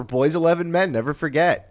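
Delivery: mock solemn. Mock solemn remembrance repeated.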